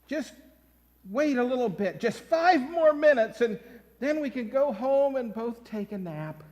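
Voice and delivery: patient mother. Retold or imitated. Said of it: "The mother says".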